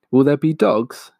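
high, loud scared little voice; frightened child. Acted. Small fox asks his mother in fright, high scared voice. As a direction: ask in fright like a small cub. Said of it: "huge with fright".

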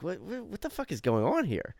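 mock bewilderment, stumbling on the first word; imitated bafflement. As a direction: voice his confusion at her behavior. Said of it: "I just don't think he".

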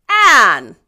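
loud exclamation of dismay; consternation. A narrator's reading. Marilla exclaims at Anne's outburst, consternation. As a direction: cry the name out, appalled. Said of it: "exclaimed Marilla in consternation".

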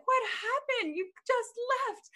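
playing the puzzled friend who wonders where you went; concerned friend. Friend asking why they left so soon. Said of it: "And she's like".

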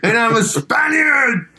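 high laughing wail, mock crying; laughing mock lament. Real, not acted. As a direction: laugh while fake-wailing. Joking lament about R's.

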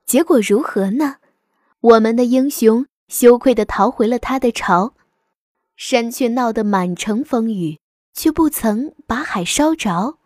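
gentle bedtime story reading; fireside storytelling. A narrator's reading. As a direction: tell it like a bedtime fable to children. Moral of the fable.

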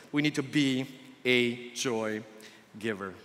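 quiet emphasis. Acted. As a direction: let the point sink in, softly. Sermon key point drawn out.

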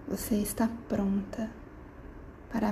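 soft whisper. Acted. Whispered line in meditation.

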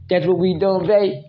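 high, teasing taunt; singsong taunting boo boo; playful taunting. Pretend. Playful taunting of partner, high pitched.

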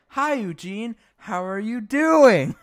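a kindly elder's warm hello, slow; friendly old man. Retold or imitated. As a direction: Tom greeting Eugene, high and slow with a laugh. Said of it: "Tom's like".

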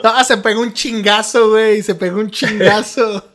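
high, slow norteño sing-song; northern Mexican accent. Acted. Host demonstrates northern slang, mock norteño accent. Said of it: "una palabra del norte de México".

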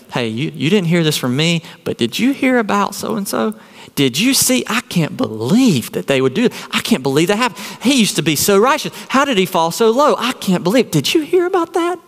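hushed then rising, eager gossip. Retold or imitated. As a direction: lean in and spread the juicy rumor. Acted gossip quote in sermon.

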